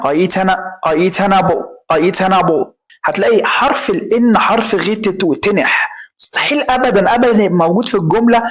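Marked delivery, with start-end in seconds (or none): 0.0-2.7 "an apple" linked as "a-napple"; إبراز حرف النون. Shown as a demonstration. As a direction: repeat it so the N in "an" stands out. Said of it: "بانت، ها؟". ("an apple" مع إبراز حرف N)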